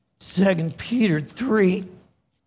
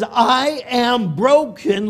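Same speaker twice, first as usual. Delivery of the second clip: God's grief; 5 semitones higher, slower than usual. Acted. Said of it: "He says".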